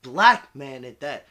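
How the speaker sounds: slow, deliberate quoting of mom; a slow, weighty hint of mom; mom's serious words. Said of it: "She's like".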